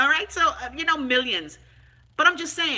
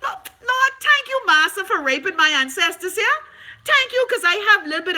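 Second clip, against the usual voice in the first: high, loud, hammed-up gratitude to the Lord; mock praise; 7 semitones higher, 5 dB louder than usual. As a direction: overplay the thankfulness like a fake revival testimony.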